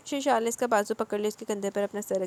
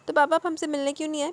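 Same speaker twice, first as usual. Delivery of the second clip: higher-pitched mild reproach; mild complaint; 7 semitones higher, 4 dB louder than usual. A narrator's reading. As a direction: complain gently, pitch lifted. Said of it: "सर झुकाते हुए शिकवा किया". (हल्का सा शिकवा)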